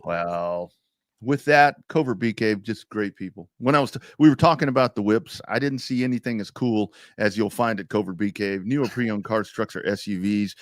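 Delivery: casual sponsor read. Acted. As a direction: slide into the ad spot. Reads dealership ad.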